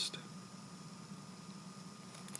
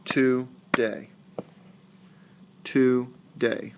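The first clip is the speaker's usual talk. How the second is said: syllable by syllable; much slower than usual. Shown as a demonstration. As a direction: split the word into TO and DAY with a gap. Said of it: "Every time you stop in a word, clap".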